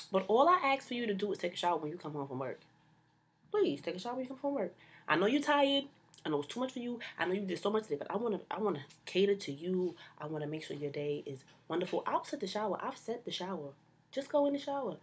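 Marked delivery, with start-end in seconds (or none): 3.5-15.0 sweet pleading. Acted. Pleading with partner to shower.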